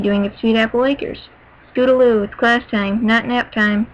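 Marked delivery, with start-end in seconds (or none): 1.7-3.9 lightly voiced stern teacher; firm, mild classroom telling-off. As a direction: put a little firmness on the pupil's name. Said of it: "Miss Cheerilee said sternly".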